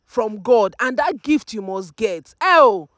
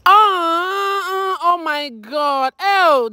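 tearful, voice catching; overcome, crying out; emotional cry; 5 semitones higher, much slower than usual. Real, not acted. Mother crying over her children's surprise.

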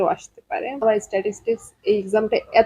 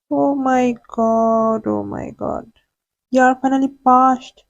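relieved excitement; much slower than usual. Real, not acted. Vlogger to viewers on seeing she passed, slow relieved delight. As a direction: let the relief spill out slowly.

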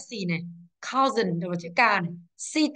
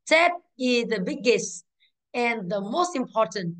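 slow reading; slower than usual. Shown as a demonstration. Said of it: "teacher reading the sentence aloud".

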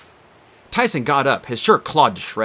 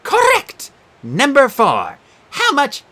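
high prim quizmaster creature; Sphinx voice; 13 semitones higher, 6 dB louder, slower than usual. Acted. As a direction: play a fussy exam monster.

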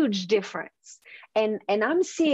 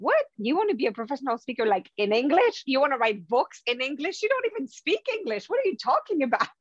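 mocking, incredulous inner critic, climbing higher at the end; doubting inner voice; 4 semitones higher, much faster than usual. Inner critic mocking her dream of speaking English, incredulous and rising. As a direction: sneer at your own dream like a scornful inner voice. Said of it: "I was hearing this voice in my head telling me".

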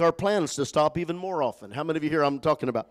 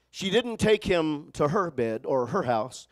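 slow, deliberate reading; slowly, for emphasis; 4 dB quieter, slower than usual. Shown as a demonstration. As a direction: draw out each word. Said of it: "let's read it slowly".

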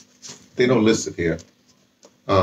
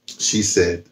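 normal talking voice

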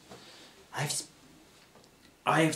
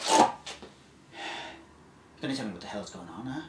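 menacing interrogator. Acted. Survivor confronting a captive stranger, lightly menacing.

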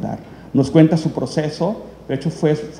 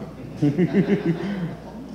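soft laugh at oneself; embarrassed laugh; 4 semitones higher, 4 dB quieter than usual. Real, not acted. Presenter caught misreading a film title, embarrassed laugh. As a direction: chuckle at your own slip.

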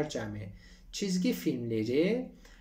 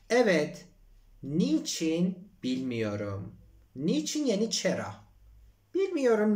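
acted driver; 6 semitones higher, 4 dB louder, much slower than usual. Acts taxi driver's reply.

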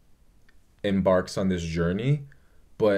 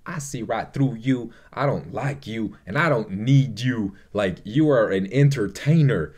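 rhythmic, emphatic read-down of someone; mildly hammed-up telling-off; mock scathing takedown; 2 semitones higher, 3 dB louder than usual. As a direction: imitate laying into someone, punching key words. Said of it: "proceeds to read Alan a filth".

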